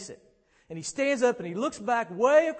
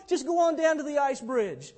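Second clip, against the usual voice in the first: higher-pitched coaxing call, easing off; 5 semitones higher than usual. Acted. Muir urging the dog toward the bridge, calling out. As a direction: urge a dog onward from afar. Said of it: "So he starts calling out".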